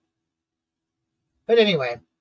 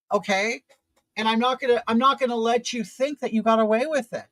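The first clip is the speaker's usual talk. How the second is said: retold anger; 3 semitones higher than usual. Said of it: "I was mad and I was pissed off".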